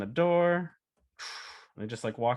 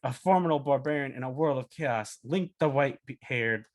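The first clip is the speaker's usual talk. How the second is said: lightly voiced epic barbarian narration; slow, measured voice-over with weighty pauses; hint of a grand saga narrator. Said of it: "uh, V O, it's like".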